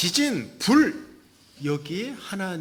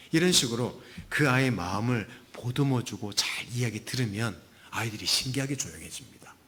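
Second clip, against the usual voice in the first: ordinary delivery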